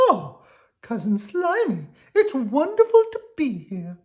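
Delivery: country cousin worm, polite. Acted. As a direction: ask very politely, pitched high. Squirmy voiced.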